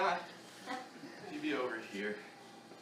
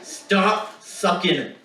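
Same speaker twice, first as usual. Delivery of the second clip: put-on bratty kid brother; 7 semitones higher, much slower than usual. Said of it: "I come rolling along and I say".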